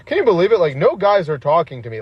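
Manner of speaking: high mock-incredulous girl's voice. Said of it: "girl that's like".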